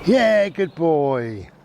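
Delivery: squeaky praising a dog. Real, not acted.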